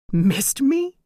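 high, loud, mocking question; mocking cackle. A narrator's reading. Ghost mocking his daughter's words, cackling. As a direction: sneer it with a cackle. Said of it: "The Phantom cackled".

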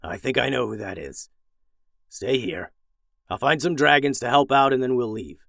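lightly voiced old dragon, sighing. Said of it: "sighed heavily".

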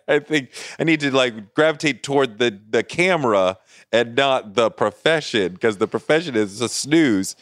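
put-on high, laughing teen epiphany; laughing realization.

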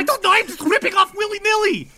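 flippant. Acted. Ivan flippant reply.

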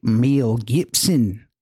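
slow put-on Aussie accent; hammed-up Australian vowels, unhurried. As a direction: draw the name out in mock Australian. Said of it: "in your best Australian accent".

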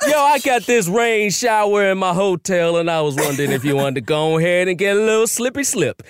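light Barbadian accent, slowed a bit; a hint of a Bajan dad greeting his daughter's man; playful, lightly done Barbadian accent. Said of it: "that's my Barbados accent".

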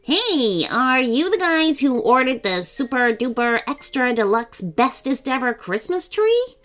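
perky high elf voice; high, chirpy Christmas helper; high-pitched elf. Acted. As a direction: squeak it like an eager little elf. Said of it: "said in a high-pitched voice".

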